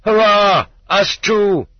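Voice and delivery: high, loud cheer; short, keen shouts of assent; enthusiastic cry. A narrator's reading. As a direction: cry out eagerly, pitch leaping up. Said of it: "now cried out with enthusiasm".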